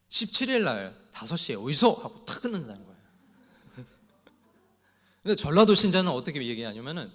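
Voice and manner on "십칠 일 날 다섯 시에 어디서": Gyeongsang brusque. Pretend. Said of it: "경상도 신자는".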